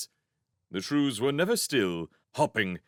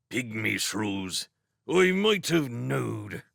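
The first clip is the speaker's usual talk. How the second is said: slow rustic hedgehog; slower than usual. Acted.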